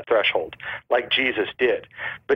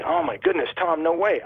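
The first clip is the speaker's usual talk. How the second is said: higher-pitched, playful feigned astonishment; mock amazement; 5 semitones higher than usual. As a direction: act amazed at a silly coincidence. Acts out feigned amazement at Tom.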